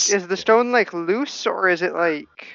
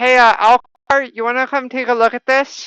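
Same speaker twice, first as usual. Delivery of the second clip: raised, high-pitched voice calling out; 5 semitones higher, 7 dB louder than usual. A character calls across to a companion, in a raised voice. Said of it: "Equinox will raise her voice".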